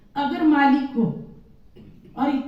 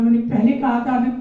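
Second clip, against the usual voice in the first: mock angry shopkeeper; faster than usual. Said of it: "इसको इतना गुस्सा आया".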